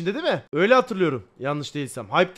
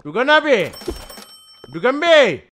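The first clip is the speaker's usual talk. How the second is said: louder, higher call for Tuğkan; 3 semitones higher, 7 dB louder than usual. Real, not acted. Streamer calling the worker Tuğkan, loud. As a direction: shout the name to get his attention.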